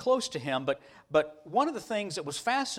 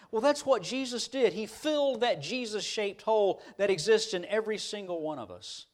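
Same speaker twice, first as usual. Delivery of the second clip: raised, emphatic preacher's cadence; preaching; 6 semitones higher than usual. Real, not acted. Preacher telling church what Jesus gave followers, fervent and emphatic. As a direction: build it phrase on phrase with weighty stresses.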